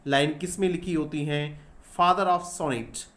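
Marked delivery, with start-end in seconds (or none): 2.0-3.1 "Father of sonnet" said very slowly, word by word; slow dictated "Father of sonnet"; slow dictation. Shown as a demonstration. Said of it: "पूछते हैं कि who is the father of sonnet".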